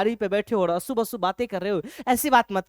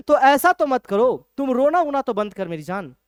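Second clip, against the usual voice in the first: pleading husband; 3 semitones higher, 6 dB louder than usual. Retold or imitated. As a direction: beg her to stop crying. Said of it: "इस तरीके से Jordan साहब अपनी wife को समझाते हैं".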